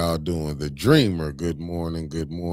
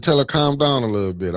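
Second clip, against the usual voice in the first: imitating the callers; 8 semitones higher, 5 dB louder than usual. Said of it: "They said".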